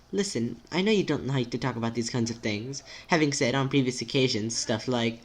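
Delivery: careful, precise friend with a swooping tune; timid, formal friend. Acted. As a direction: reason it out politely and tentatively.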